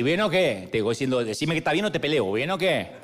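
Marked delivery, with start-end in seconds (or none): 0.0-0.7 playful imitation of a Cali accent; Caleño accent. Showing how people from Cali talk, Caleño accent. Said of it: "el de Cali te hace así". 1.2-2.9 mock-challenging Cali accent; Caleño accent. Cali local daring you to be well, Caleño accent. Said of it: "el de Cali te hace así".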